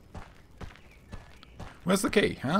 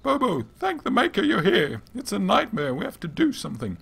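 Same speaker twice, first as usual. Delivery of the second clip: panicked plea; 10 semitones higher, 5 dB louder than usual. Acted. Panicked villager pleads for help.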